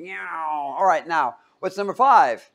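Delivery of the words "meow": one long swooping plane noise; imitated airplane drone. Teacher showing students their airplane sound, droning imitation. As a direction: swoop through it like a passing plane. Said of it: "You sound like an airplane".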